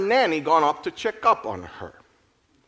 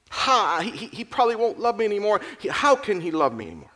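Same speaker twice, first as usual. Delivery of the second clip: tearful despair; 8 semitones higher, faster than usual. A narrator's reading. Rebecca despairing, sobbing afterwards.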